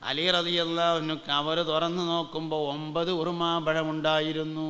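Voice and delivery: level preacher's chant with a drawn-out ending; sing-song preaching. Acted. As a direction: tell it in a preacher's lilt. Sing-song sermon storytelling.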